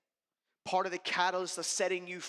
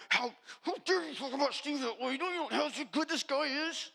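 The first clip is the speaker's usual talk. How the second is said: indignant retort; 8 semitones higher than usual. Retold or imitated. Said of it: "I'm like".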